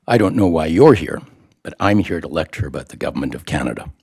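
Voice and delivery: dry, unmoved delivery dropping low at the end; deadpan professor, firm start then low and quick. Retold or imitated. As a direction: imitate a professor's deadpan announcement. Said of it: "completely deadpan".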